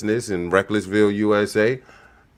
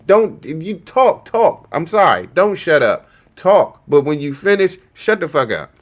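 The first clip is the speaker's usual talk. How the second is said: higher and louder, barking at the screen; exasperated scolding; 5 semitones higher, 3 dB louder than usual. Real, not acted. Streamer scolds Jasmine on the clip, exasperated and loud. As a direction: tell her off in bursts.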